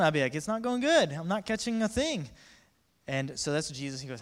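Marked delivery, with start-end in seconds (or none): 0.3-2.3 high, loud exasperated holler; hollered complaint. Acted. Fisherman answering onlookers with empty net, hollered. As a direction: holler the bad news back.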